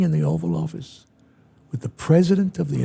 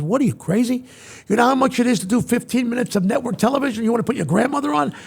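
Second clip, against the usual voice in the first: fast, higher-pitched disbelief; incredulous; 6 semitones higher, faster than usual. Retold or imitated. TV network president challenging the host's grandmother idea, incredulous. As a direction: fire off questions like an appalled boss.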